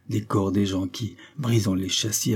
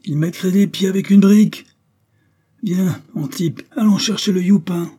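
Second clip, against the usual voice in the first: high, loud angry yell; rallying shout, pitched way up; mob shouting; 10 semitones higher, 7 dB louder than usual. A narrator's reading. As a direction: holler it over the uproar. Mob shouting during a riot.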